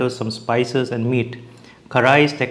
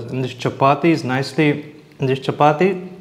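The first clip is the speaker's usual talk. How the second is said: talking with mouth full. Real, not acted. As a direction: speak through a mouthful of food. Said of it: "Sorry if I'm talking with my mouth full".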